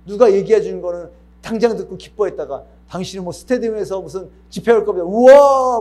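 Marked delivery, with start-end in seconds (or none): 5.0-5.8 a much higher, shouted wow; excited whoop. Retold or imitated. Believer hearing a stadium prophecy, shouting wow. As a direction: cheer like a crowd at a prophecy. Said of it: "막 이랬다가".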